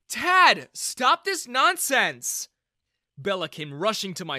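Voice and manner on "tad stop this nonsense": loud, slow, high scolding cry; angry shout. Acted. Daughter scolds her dad, loud and angry. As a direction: snap at him to stop, loud. Bella stops her father.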